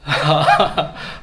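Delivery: loud burst of laughter; hearty laugh. Real, not acted. Pastor joking with congregation about himself, hearty laugh.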